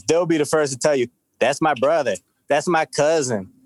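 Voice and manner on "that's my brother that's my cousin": mock Black voice, slow and drawn; lightly put-on Black voice. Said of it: "you see his black voice coming out?".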